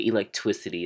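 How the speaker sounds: electricity as "elec-twisity"; father's mispronunciation. Retold or imitated. Daughter citing her father's funniest word, electricity as "elec-twisity". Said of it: "says a couple other things really weird".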